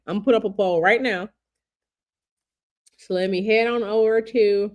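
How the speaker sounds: talking around a toothpick in mouth. Real, not acted. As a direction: toothpick in mouth, words a bit blocked. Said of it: "I got this toothpick, toothpick in my mouth".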